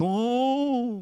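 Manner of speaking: big, loud, booming angel voice. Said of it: "fala assim com aquela vozeirão de anjo".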